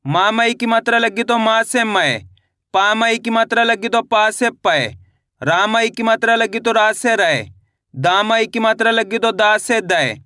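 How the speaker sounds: slow, measured syllable-by-syllable chant; spelling drill recitation. Shown as a demonstration. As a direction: recite each spelling with a drawn-out final syllable.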